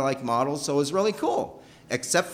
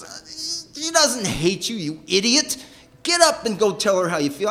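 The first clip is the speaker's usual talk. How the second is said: dad's gruff push; 8 semitones higher, 3 dB louder than usual. Retold or imitated. Dad scolding son to go.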